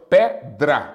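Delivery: pedra split as pe-dra, dr kept together; syllable by syllable. Shown as a demonstration. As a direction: say pedra in two beats, pe, then dra. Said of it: "Eles ficam na mesma sílaba".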